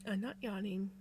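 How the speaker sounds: sigh, then a soft, mumbled denial; half-asleep, breathed out. Real, not acted. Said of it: "Somebody else is making me yawn".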